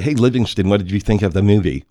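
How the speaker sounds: hammed-up overbite voice; bad rabbit impression. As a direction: imitate a friend talking through sudden buck teeth. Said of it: "I'm doing a very bad impression".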